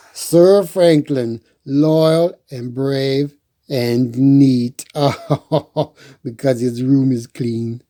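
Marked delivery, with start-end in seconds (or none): 0.1-4.8 grand proclamation. A narrator's reading. Reading the shield's words out, slow and grand. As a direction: announce it like a herald. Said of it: "Let's see".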